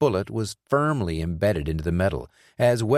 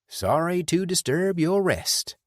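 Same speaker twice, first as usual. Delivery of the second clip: slow, hushed respect, voiced higher; reverent; 10 semitones higher, slower than usual. A narrator's reading. Tommy apologizes to the corpse, slow and reverent. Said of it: "he said reverently".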